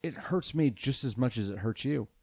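a hint of a grave public apology, played for laughs; mock solemn apology. Host addresses seven listeners in a hushed mock-solemn apology. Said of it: "this is a special message to our listeners".

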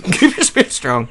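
"Keep your spirits strong." laughed out, stress on "your"; breaking up while repeating the pep talk; laughing repeat. Pretend. Second take, laughing.

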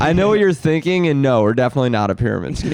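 fast reassuring sales spiel; corporate pitch voice. Pretend. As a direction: rush the denial like a pitchman. Mocking the company's pitch.

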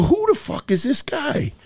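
high, slow mock sneer at the mouthy guy; mock tough robber. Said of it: "I go".

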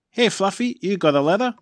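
high, loud calling guard. A narrator's reading. Guard handing Fluffy a letter, high and loud. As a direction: sing it out like a cheery guard. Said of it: "says the guard".

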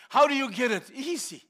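ordinary delivery

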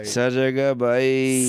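cooing to a pet. Acted. Cooing to the cat.

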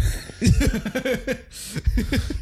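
squealing laugh; high squealing laugh. Pretend. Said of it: "that's my, uh, John Cena impression".

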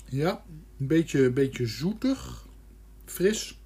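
tasting with beer in mouth. Real, not acted. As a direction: talk with a sip still in mouth. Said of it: "terwijl ik hem in mijn mond heb".

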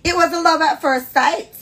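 high, loud, theatrical narration; romantic story reading. Acted. Host reading friend's romance aloud, theatrically. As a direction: gush through the love-at-first-sight moment.

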